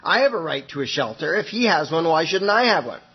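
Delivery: mild indignant complaint; a touch of entitled whining; ranting. Retold or imitated. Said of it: "she's ranting on and on".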